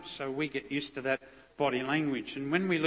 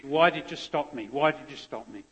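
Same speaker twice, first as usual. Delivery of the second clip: mock scream; 3 dB louder than usual. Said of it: "screaming out to me".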